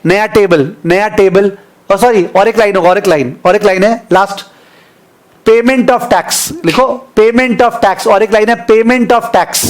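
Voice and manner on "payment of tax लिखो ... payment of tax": slow dictation. Shown as a demonstration. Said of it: "please write down".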